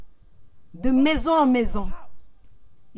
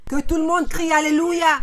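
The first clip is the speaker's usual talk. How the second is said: calling out; 3 semitones higher than usual. Real, not acted. Preacher calls congregation to shout.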